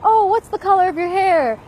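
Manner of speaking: high, loud mock-curious question, imitating the asker; mocking a nosy asker. Imitating a stranger quizzing her about her hair, high and loud mock curiosity. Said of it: "The most ridiculous thing I've been asked is like".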